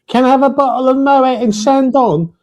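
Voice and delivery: high, quick customer asking; mock customer voice. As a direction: imitate a bored shop customer. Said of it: "and say".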